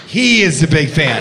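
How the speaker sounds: "He" pressed in "He is a big fan"; stress on he. Retold or imitated. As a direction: lean hard on "He". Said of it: "she emphasized he in the second reiteration".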